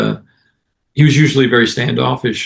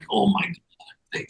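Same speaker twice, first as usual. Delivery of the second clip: soft, high, drawn-out amazement; awestruck fan; 10 semitones higher, 9 dB quieter, much slower than usual. Retold or imitated. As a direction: imitate a starstruck fan, slow and hushed. Retold fan awestruck at meeting him.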